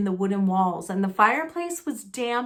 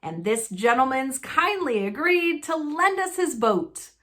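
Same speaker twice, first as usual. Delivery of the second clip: a hint of gleeful Vernon; 4 semitones higher than usual. Vernon voiced, continuing.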